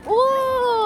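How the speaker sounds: loud surprised oh. Real, not acted. Reacts to a hint.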